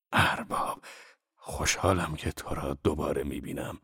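subdued, hesitant formal greeting; stiff formality. A narrator's reading. Zorba hesitantly greets his boss, stiff and formal.

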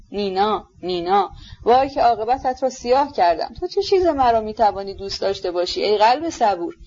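put-on wistful, lilting old father's lament; emotional old general. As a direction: pour out a tender, wounded confession to your son.

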